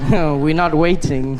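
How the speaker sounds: laughing reply. Retold or imitated. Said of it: "And I was like".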